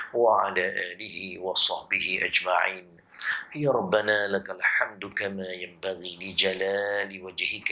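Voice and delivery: fervent Malay-Arabic supplication, chanted; closing doa led for the congregation; prayer. Acted. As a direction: plead to God in a steady, rhythmic prayer. Closing doa after the sermon.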